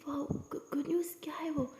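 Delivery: quick soft whisper; hushed excitement. Acted. Aliya whispering on the phone to her boss, excited. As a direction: whisper fast so she doesn't wake her. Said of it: "Alia कहती".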